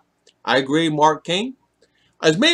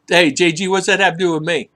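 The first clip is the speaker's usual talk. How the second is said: mock challenge, slightly louder and higher; teasing; 4 semitones higher, 5 dB louder than usual. Host needles J G in fun, teasing. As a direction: tease with a pretend objection. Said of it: "No, I'm kidding".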